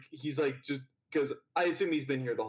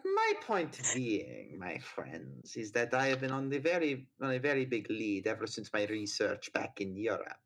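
put-on German accent; 4 semitones lower than usual. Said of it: "Are you mocking my accent".

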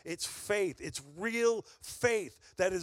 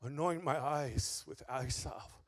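quiet prayer; 2 semitones lower, 5 dB quieter than usual. Retold or imitated. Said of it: "I said".

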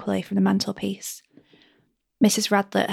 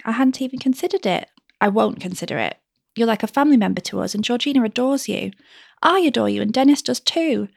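a touch of tearfulness, voice climbing higher; trembling, rising higher; 3 semitones higher than usual. Acted. Mistress close to crying as she pleads with nurse, mildly trembling. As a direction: near tears, lightly played, climbing in pitch. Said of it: "Her voice trembled and grew higher".

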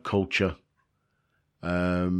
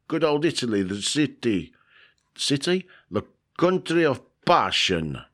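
put-on Dracula-like accent; 6 semitones higher than usual. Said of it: "I don't know what accent was. It sounded more like Dracula".

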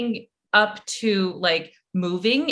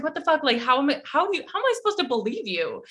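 fast, higher disbelieving rant; incredulous retort; 5 semitones higher, much faster than usual. Retold or imitated. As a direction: pile up the disbelief quickly. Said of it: "I was like".

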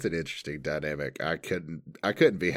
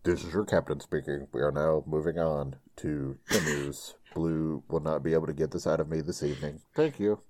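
low, measured airline captain voice; captain's announcement; 4 semitones lower than usual. Acted. Host as captain moving on to the news, low pilot announcement.

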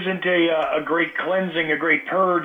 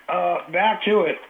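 normal talking voice

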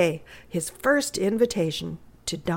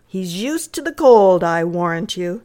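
mildly impatient housekeeper; a touch of impatience, understated; 6 dB louder than usual. Acted. Housekeeper brushing off worry about the boy's cold, mildly impatient. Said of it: "said the housekeeper rather impatiently".

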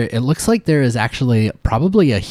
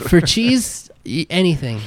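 eager squeaky rat; 4 semitones higher, slower than usual. Acted. Rat begs for cheese.

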